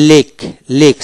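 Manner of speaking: "লেক" ending in one k sound; silent c. Shown as a demonstration. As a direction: model "লেক" with no separate c sound. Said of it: "সি উচ্চারণ হবে না".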